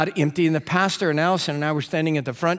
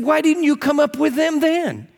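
puzzled question; 10 semitones higher, 3 dB louder than usual. Retold or imitated. Preacher questions the woman.

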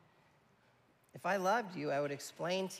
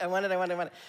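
little son begging; 3 semitones higher, 8 dB louder, much faster than usual. Retold or imitated. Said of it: "He's like".

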